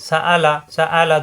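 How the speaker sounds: সা আলা with short vowels and a break before আলা; short, separate beats on সা আলা; quick short syllables. Shown as a demonstration. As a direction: keep সা আলা brief, no stretching. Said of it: "দ্রুত উচ্চারণ".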